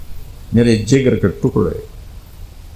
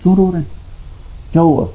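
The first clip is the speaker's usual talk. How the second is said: anxious plea; 8 semitones higher than usual. Retold or imitated. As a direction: ask him tearfully why he weeps. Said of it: "حضرت ام سلمہ نے پوچھا". (پریشان، روہانسی آواز میں سوال)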